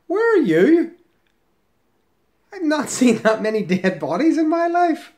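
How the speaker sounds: high, loud cry of disbelief; incredulous outburst. Real, not acted. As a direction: call out the writer in loud, high-pitched disbelief. Reacts incredulously to comment read out.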